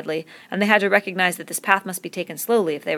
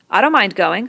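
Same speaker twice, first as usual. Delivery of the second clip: louder, stung and heated; hot retort; 3 semitones higher, 8 dB louder than usual. A narrator's reading. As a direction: fire it back hotly. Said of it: "said Jack hotly".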